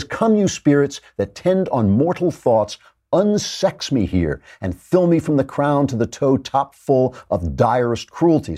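slow, lightly dramatized Shakespeare quote; lightly voiced Lady Macbeth, stretched words; Lady Macbeth invoking spirits. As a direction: deliver it as a measured, mildly theatrical invocation.

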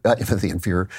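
laughing at own slip. Real, not acted. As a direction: laugh through the slip of the Inferior.

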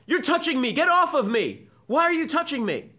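high, loud shrieked accusations; mock hysterical yelling. Students shrieking at the photographer, mock hysterical yell. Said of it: "students begin yelling at him".

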